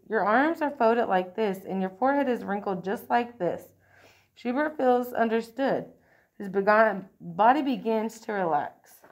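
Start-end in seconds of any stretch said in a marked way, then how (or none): 0.1-3.7 soothing. Acted. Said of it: "says in a soothing voice".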